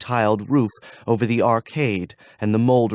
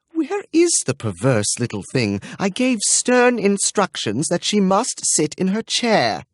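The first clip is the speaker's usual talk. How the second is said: sad moan; 9 semitones higher than usual. Acted. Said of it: "moaned in a sad contralto".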